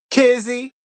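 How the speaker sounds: high, questioning name call. Pretend. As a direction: call her name to get her attention. Calling the absent contestant to attention.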